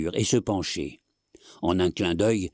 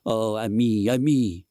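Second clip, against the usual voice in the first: high, louder cries of fright; frightened cry; 4 semitones higher, 3 dB louder than usual. A narrator's reading. Lady cries to her husband in fear.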